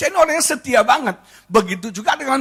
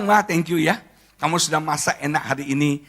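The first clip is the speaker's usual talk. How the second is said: lower, softer appreciative husband; tender thanks; 7 semitones lower, 5 dB quieter than usual. Acted. Husband thanking his wife for cooking, gently appreciative. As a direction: thank her gently, voice brought down.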